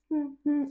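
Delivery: small high whimpers, imitated; mock dainty crying. Shown as a demonstration. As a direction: imitate someone crying politely. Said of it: "somebody that cries like".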